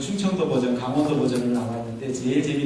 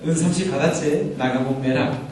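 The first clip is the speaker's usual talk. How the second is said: Bible dialect joke. Shown as a demonstration. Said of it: "성경적 사투리로".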